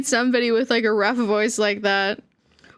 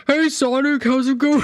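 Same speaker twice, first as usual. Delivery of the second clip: mock Sonic voice. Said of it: "the voice acting is gonna be me like".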